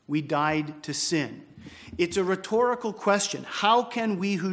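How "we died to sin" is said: slow, measured "We died to sin"; emphatic statement. Shown as a demonstration. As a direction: set down "We died to sin" word by word. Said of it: "That is what Paul says emphatically".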